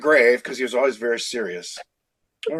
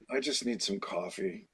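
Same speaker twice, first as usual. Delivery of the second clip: faint, slow and much softer, drained; weak sick voice; 7 semitones lower, 14 dB quieter than usual. Retold or imitated. Sick young man insisting to his boss, much softer and weak. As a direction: barely get it out, like you're fading. Feeble sick self told to Phil.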